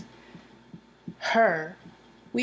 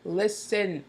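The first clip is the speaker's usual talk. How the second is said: mock stern boss. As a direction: bark orders like an impatient boss. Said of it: "She's like".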